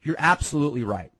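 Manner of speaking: lightly imitated mom, high opening; quoted mom. Retelling mom conceding the point, lightly imitated agreement. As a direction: pitch jumps up in mock realization, then settles. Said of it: "And she said".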